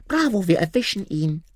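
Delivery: eager dimwit henchman; squeaky robber shout; dim robber calling. A narrator's reading. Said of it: "rief noch einmal".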